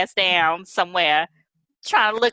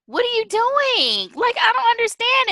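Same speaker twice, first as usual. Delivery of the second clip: exasperated; 13 semitones higher than usual. Real, not acted. Exasperated at Michelle on TV.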